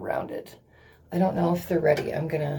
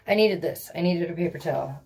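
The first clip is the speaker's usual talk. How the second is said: ordinary talk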